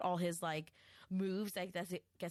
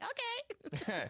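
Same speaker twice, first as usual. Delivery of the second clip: meek okay; 14 semitones higher than usual. Retold or imitated. Little sister agreeing to be hurt.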